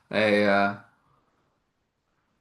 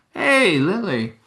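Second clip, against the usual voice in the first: calling out; 9 semitones higher, 5 dB louder, slower than usual. Acted. Wife calling out greeting.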